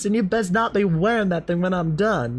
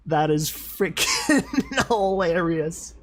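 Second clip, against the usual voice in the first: drawn out; slower than usual. Real, not acted. Repeats it drawn out.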